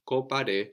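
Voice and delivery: "compare" with the m swallowed into the nose; nasal vowel. Shown as a demonstration. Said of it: "We don't say complique".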